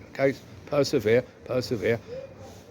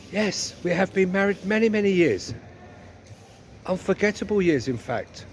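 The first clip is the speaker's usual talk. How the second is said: lightly put-on wifely voice; a touch of comic wifely weariness; 4 semitones higher than usual. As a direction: lightly play the long-married wife. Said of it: "I'm just playing the part".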